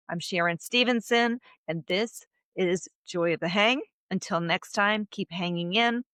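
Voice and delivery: polished host sign-off read; podcast outro. Acted. Host closing the show for her listeners, upbeat outro read. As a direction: wrap up the episode for listeners.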